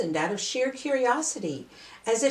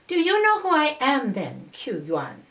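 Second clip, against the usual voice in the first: higher, louder mermaid asking; lifted mermaid voice, louder; mermaid's voice; 4 semitones higher, 3 dB louder than usual. Acted. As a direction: pitch it up, curious and probing. Mermaid questions the poet.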